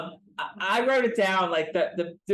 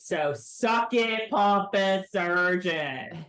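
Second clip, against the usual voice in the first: drawn-out, slow taunt; mock gloating retort; much slower than usual. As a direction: stretch each word as a smug jab. Crowing retort in the speaker's role.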